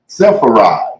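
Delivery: "Sepharad" said slowly as seh-fah-RAHD; careful pronunciation. Shown as a demonstration. Teacher showing listeners how to say "Sepharad" carefully. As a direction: spell out "Sepharad" syllable by syllable. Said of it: "that's how you will pronounce it".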